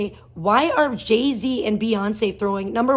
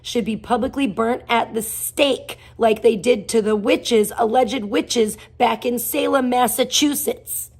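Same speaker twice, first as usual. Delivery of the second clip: louder, slowing, furious indictment; angry rant; 5 dB louder than usual. Real, not acted. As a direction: hammer it home like a verdict. Ranting about Epstein associates.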